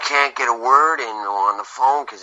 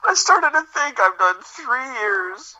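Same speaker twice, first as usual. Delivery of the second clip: higher, strained voice on the verge of tears; hammed-up emotional breakdown; mock meltdown; 6 semitones higher than usual. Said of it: "before I just have another meltdown here".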